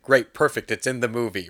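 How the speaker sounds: loud, emphatic sign-off, easing after the first words; imitated snap decision, punchy start; mock enthusiastic approval. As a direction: play an executive eagerly green-lighting it. Acted executive instantly approving an idea.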